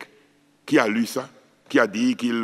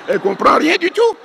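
laughing; 13 semitones higher, 6 dB louder than usual. Real, not acted. Joke about the mother.

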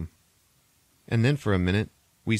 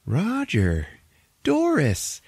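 dying mom; 10 semitones higher, 3 dB louder, much slower than usual. Retold or imitated. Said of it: "the mom is like".

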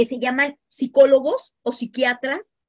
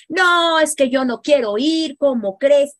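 put-on teen protest; 3 semitones higher, 5 dB louder than usual. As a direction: push back like a stubborn teen. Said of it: "teen refuses therapy".

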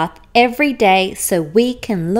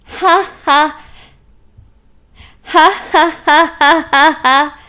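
louder, full belly laugh; hearty acted laughter; 6 semitones higher, 7 dB louder than usual. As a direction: laugh out loud with joy. Unicorn laughing in mud.

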